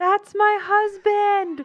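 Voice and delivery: super loud, very high, acted-out cheering yell. Retelling cheering at a baseball game: imitating own yell. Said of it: "I always yell".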